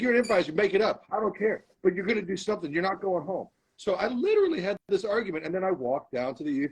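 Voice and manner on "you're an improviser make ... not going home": higher-pitched mock scolding of his lazy self; a half-hearted scolding, like a coach berating a player; mock yell at himself. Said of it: "And I was like".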